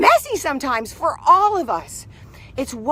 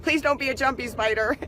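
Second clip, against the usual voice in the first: giggly hello; 2 semitones higher than usual. Real, not acted. There's a spider.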